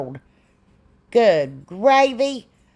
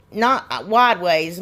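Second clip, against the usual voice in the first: "not wide ways" drawn out slowly, correcting herself; stress on not wide; much slower than usual. Shown as a demonstration. Correcting her craft steps for viewers, slow stress on "not wide ways". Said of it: "long ways".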